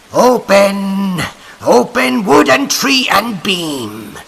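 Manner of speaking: loud, slow, raging cry to the door; witches crying out. A narrator's reading. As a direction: bellow at the barred door like furious witches. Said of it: "they cried to the door".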